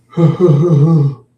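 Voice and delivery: long, loud, high wavering sigh; heavy sigh. Real, not acted. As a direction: let out a big loud sigh. Tired speaker breathing heavily.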